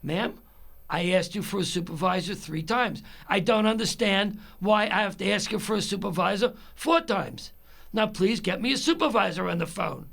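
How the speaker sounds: retold irritated demand, building; getting mad. Caller demanding a supervisor from customer service, mildly angry. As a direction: lean on the words as patience runs out. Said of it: "then I get mad".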